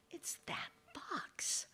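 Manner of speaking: whispering his fear of the fox; whispered thought. Acted. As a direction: hush it like a private dread. Man's muttered thought.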